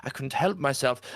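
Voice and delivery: mother justifying hitting someone, high and upset; Martha upset. Acted. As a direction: blurt out a guilty confession. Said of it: "And she go".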